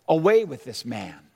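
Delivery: crowd cry. Retold or imitated. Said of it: "They all cried out".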